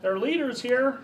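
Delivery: high, loud shout imitating a lookout; retold yell. Retelling how somebody yelled out of the courthouse window, mock yell. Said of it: "somebody yells out of the window".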